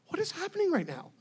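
high, quick, baffled question; bewildered onlooker. Retold or imitated. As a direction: voice a confused bystander. Imagined baffled onlookers watching.

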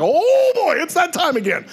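hammed-up high "here we go" reaction; acted alarmed anticipation. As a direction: pitch way up, bracing for what is coming. Acts own reaction to the change.

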